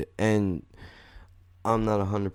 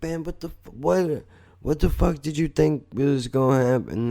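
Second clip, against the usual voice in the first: high incredulous retold rant; incredulous outburst; 7 semitones higher than usual. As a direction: pitch jumps high, a mock-exasperated cry. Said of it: "And I was like".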